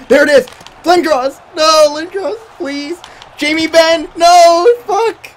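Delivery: high, loud, frantic yells; frantic shouting. Real, not acted. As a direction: scream names in the final rush. Overtime chaos, shouting players' names.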